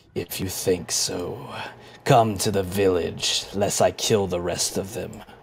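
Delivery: deep, low, rumbling, grumbling creature voice. A narrator voices an unseen speaker answering the player's shout, low grumbling voice. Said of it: "a low grumbling kind of chuckle".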